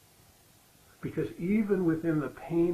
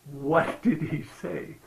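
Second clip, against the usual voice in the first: laughing question; 7 dB louder, much slower than usual. Real, not acted. Laughing while asking mom.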